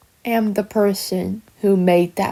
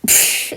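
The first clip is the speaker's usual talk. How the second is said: short voiceless huff of laughter; scornful puff; 3 dB quieter than usual. Acted. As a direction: let out one dismissive breath. Villain's reaction after a threat.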